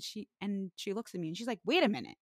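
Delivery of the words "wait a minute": high, loud, wide-eyed realisation; amazed barista. Retold or imitated. Barista realising the car paid again, high and amazed. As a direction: play the girl who just noticed, pitched up. Voicing the drive-thru girl.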